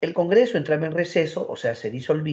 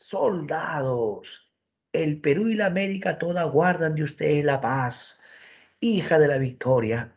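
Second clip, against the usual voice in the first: rallying speech. Acted. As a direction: rouse the troops like a general. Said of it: "Simón Bolívar arenga a sus tropas con las siguientes palabras".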